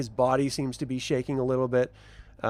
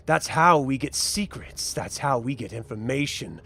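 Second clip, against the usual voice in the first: gloating gang villain. Acted. Villain's speech.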